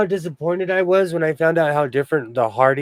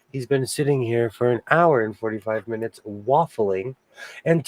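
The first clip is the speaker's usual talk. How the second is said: golf commentator; 3 semitones lower than usual. Pretend. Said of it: "You have the voice for it".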